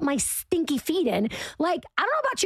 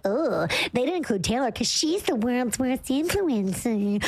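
mock gossip. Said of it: "people are like".

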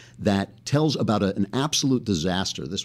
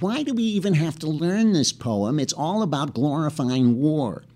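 put-on girl's protest; 6 semitones higher than usual. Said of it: "squirrely little girl in the front row stood up and said".

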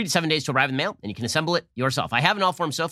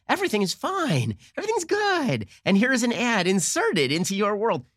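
higher, chirpy ad-like voice; Truman Show wife parody; 7 semitones higher than usual. Retold or imitated. Host imitating Laura Linney's Truman Show character, higher and chirpy. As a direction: sell it like a fake sitcom wife. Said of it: "Laura Linney from The Truman Show".

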